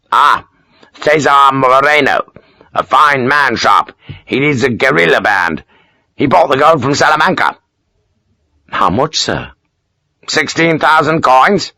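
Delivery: proud of his clever solution; self-satisfied Major. Acted. Major explaining the gold's story to Sharp, pleased. Kersey praises Moreno.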